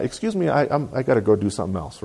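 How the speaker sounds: soft, fast, hesitant bowing out; polite excuse. Acted. Churchgoer politely excusing himself from the group, politely. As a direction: excuse yourself quietly, stumbling a little. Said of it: "you can politely say".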